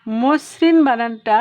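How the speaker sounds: slow, loud demo of মসৃণ with a double স; doubled s in মসৃণ. Shown as a demonstration. Teacher to students, showing the doubled স in মসৃণ. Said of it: "দেখো মসৃণ".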